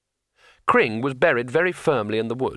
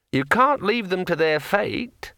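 talking sword; 7 semitones higher, slower than usual. A narrator's reading. Sword Kring speaks.

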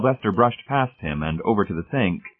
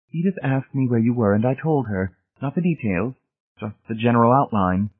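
lightly voiced wife, pitched higher; a hint of the wife, higher-pitched; wife's voice; 5 semitones higher than usual. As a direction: explain it to your husband in a higher voice.

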